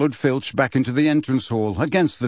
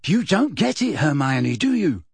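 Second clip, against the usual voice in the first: smiling; 3 semitones higher than usual. A narrator's reading. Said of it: "smiling at her".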